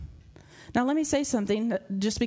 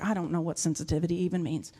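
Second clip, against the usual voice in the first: mock congregant; 5 semitones lower, faster than usual. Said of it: "Some of you are like".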